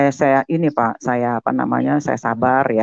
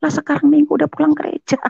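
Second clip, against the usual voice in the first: high-pitched baffled reaction; bingung keheranan; 14 semitones higher than usual. Retold or imitated. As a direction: puzzle it out in high-voiced disbelief. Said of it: "Dia bingung dong". (suara tinggi penuh keheranan)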